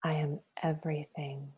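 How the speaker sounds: breathy whispered repetition; whispered mantra. Shown as a demonstration. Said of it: "Say to yourself".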